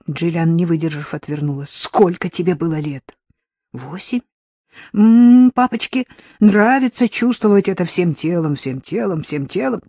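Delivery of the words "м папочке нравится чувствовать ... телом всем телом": louder, sing-song leer of a father. Acted. Roberta channeling her father, leering. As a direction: purr it like a predator.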